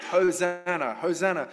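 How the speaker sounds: called out loud, falling at the end; shouting Hosanna. Retold or imitated. Crowd at the roadside hailing the king, called out loud. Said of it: "They're shouting out".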